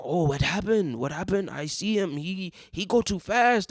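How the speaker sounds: halting mock Asian-accented English, drawn out at the end; put-on Asian accent, pleading his case. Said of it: "an Asian man with an accent".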